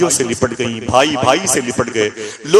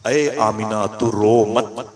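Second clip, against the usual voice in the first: slow soothing voice; 3 semitones lower, much slower than usual. Acted. Voice from the unseen speaks.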